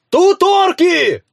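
high, loud, drawn-out shout of alarm; distant yell that orcs are here; alarmed cry. A narrator's reading. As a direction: cry out the warning from afar, slowly. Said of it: "раздался крик от нашего дома".

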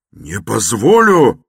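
loud, high, slow furious shout. A narrator's reading. Raskolnikov shouting his refusal again, loud. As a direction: bellow the refusal. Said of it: "крикнул было другой раз".

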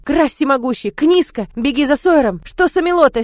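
high, loud alarmed cries; panicked cry. Acted. Maid cries out in alarm at the sick child. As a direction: servant crying out in panic at the bedside.

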